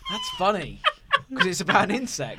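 laughing mid-sentence; chuckling while explaining. Real, not acted. Laughing at the joke.

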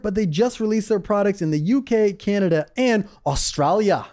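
hammy fake Australian accent; bad Australian accent. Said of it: "I don't think that was a good accent".

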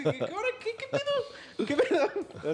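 very high, laughing cartoon voice; mocking dub voice. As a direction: squeak it out in mock surprise. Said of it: "Así, y tú sí".

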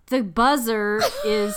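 radio voice. Shown as a demonstration. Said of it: "It's my radio voice".

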